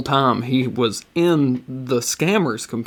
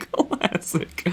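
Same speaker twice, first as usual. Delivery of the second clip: whispered aside; 12 semitones higher, 6 dB quieter than usual. Real, not acted. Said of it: "is classic".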